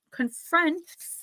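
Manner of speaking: confronts drawn out, stumbling on the final cluster; struggling to pronounce. Real, not acted. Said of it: "I can't say it".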